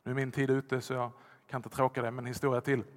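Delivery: ordinary talk, nothing marked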